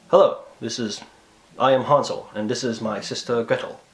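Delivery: put-on formal introduction in a light foreign accent; hint of a stiff European accent; put-on vague European accent. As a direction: introduce yourself with a mild old-world accent. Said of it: "with some sort of accent".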